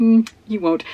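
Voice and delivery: ordinary talk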